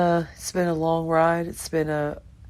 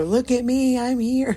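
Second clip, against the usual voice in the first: put-on high, louder little child voice; toddler voice; 8 semitones higher, 5 dB louder than usual. Grandmother voicing toddler calling for attention. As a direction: chirp it like a proud toddler.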